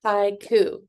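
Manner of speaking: Haiku in two measured beats; syllable by syllable. Shown as a demonstration. Teacher repeating the word for clapping, Haiku syllable by syllable. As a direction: say Haiku carefully, each syllable distinct. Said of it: "If you say it slowly".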